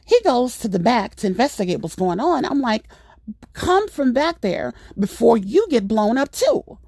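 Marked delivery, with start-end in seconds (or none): 3.5-6.8 raised, higher-pitched warning; mock yell, only half projected; retold yell. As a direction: call a warning without really shouting. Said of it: "yelling to the top of my lungs".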